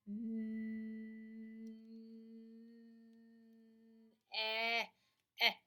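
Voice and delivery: stuttered eh sounds with laughter; laughing sounding out. Shown as a demonstration. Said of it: "sounding out with laughter".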